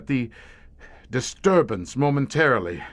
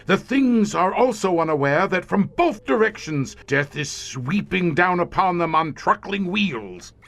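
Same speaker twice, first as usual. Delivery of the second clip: rising excitement; 6 semitones higher than usual. Acted. Gloating as the cars close in.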